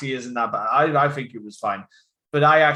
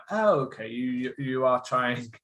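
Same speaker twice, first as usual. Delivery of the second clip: lightly imitated actor's half-accent, drawn out; slight put-on voice. Film fan mimicking Jon Voight's wobbly accent, slight put-on voice. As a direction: put on a slight, uncommitted foreign voice. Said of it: "occasionally puts on a slight voice".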